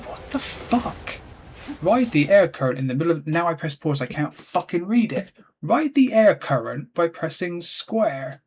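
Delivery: genuinely losing patience; real anger. Real, not acted. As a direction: angrily read out what the game demands. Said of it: "I'm getting angry".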